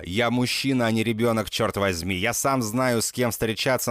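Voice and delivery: ordinary delivery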